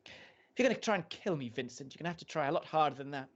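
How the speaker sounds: high, mocking and defiant; defiant wife voice. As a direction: sneer it back at him. Hostess voiced defiantly at husband.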